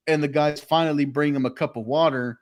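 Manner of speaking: ordinary talk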